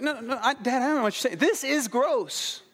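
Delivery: put-on high-pitched protesting little boy; child's high voice, slowing on the last words; confused six-year-old. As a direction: imitate a baffled kid insisting to dad. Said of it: "he was confused".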